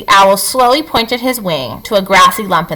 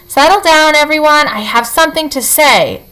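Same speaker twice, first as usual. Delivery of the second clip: hooting owl; 7 semitones higher than usual. A narrator's reading. Owl calling down to the crowd from a branch, hooting. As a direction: call the meeting to order like an owl. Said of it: "Swooper the owl hooted to the crowd".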